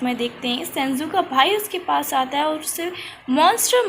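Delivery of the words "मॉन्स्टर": high, louder jeering call of a bully brother; taunting name-calling. Retold or imitated. Brother jeers at Senju, calling him monster. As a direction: sneer it like a kid throwing stones. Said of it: "monster कह के बुलाने लगता है".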